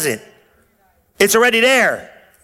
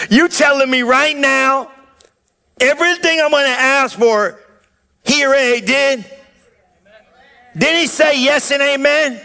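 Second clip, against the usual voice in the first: fervent preaching; 4 semitones higher than usual. Real, not acted. Rising preaching fervor.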